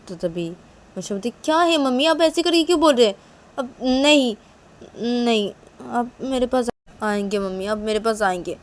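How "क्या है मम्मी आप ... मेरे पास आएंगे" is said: high, loud whiny objection; upset protest. Acted. Daughter objects to mummy's words, upset protest. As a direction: plead loudly with mother, pitched up.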